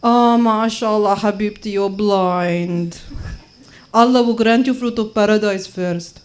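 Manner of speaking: lightly put-on Arab accent; Arab lady. Arab lady blessing blind woman, light Arab-accented voice. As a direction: bless her as an Arab auntie, drawing out the start. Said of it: "Arab lady at my mosque".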